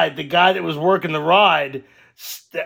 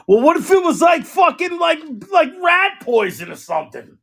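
real alarmed question; alarmed outburst; 7 semitones higher than usual. Real, not acted. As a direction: raise the alarm.

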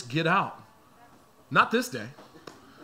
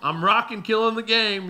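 laughing mock announcement; 3 semitones higher than usual. Pastor stuck in the school line, laughing mock announcement. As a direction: announce yourself while cracking up. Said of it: "I'm standing in the middle of the line like".

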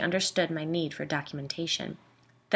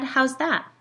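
high, louder puzzled question; intrigued, pitched-up query; curious surprise; 8 semitones higher, 6 dB louder than usual. A narrator's reading. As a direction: perk up, wanting to know more. Puzzled listener prompts Pam.

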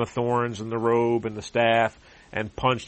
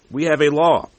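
insistent claim; 5 semitones higher, 8 dB louder than usual. Acted. Jews answering Pilate.

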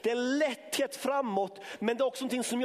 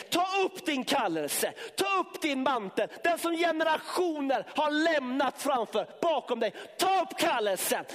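shouting sermon; 4 semitones higher than usual. Real, not acted. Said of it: "jag skriker". (högljudd, skrikande predikan)

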